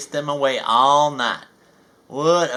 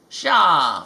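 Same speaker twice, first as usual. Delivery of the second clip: mild shout; 5 dB louder than usual. Acted. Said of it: "Farmer McCall shouted at the birds".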